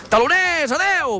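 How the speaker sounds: sign-off demo. Shown as a demonstration. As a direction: show the guest how to sign off with punch. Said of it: "Tú tienes que decir".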